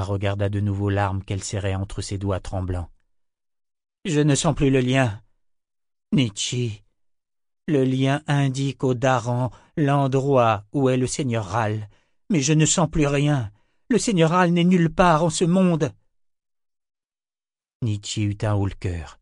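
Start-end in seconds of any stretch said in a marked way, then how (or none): 4.0-15.9 building from tense to loud high panic. A narrator's reading. Kara panics realising the lord is gone, growing louder. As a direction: let the panic grow to a cry. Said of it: "paniquée".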